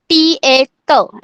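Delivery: त drawn out slowly, as in "टीए"; pronunciation demo. Shown as a demonstration. Teacher showing students how त is pronounced, slow pronunciation demo. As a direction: slowly sound out "टीए", then त. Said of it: "ऐसे pronounce करना है".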